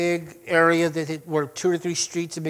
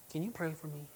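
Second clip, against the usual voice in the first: quiet request; 13 dB quieter than usual. Retold or imitated. Acted quiet request from onlookers.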